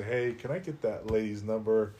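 laughing through a quick question. Retold or imitated. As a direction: rush it out, giggling. Asking for psychic's number, laughing.

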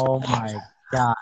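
slightly mocking, slow drawn-out imitation; mocking his talk. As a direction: lightly imitate him, dragging each word. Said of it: "You talking like this".

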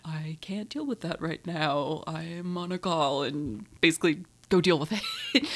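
a hint of a calm, busy father; calm dad. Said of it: "very calmly".

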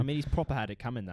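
put-on quick, blokey British accent; reply briskly in mock British. Backing co-host's story, quick British accent. Co-host keeps up the accent bit.

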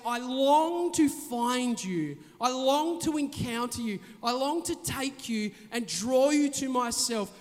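slow, tender longing; tender calling. Retold or imitated. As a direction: speak gently as God calling his child. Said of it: "God is calling out our name".

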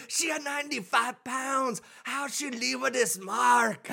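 slow, high mock accent cop; Asian accent. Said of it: "Was that an Asian cop?".

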